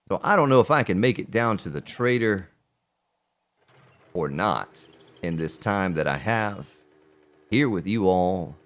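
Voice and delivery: deep, dropped low voice. Real, not acted. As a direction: sink the voice low. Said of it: "I don't know why I'm talking like this now".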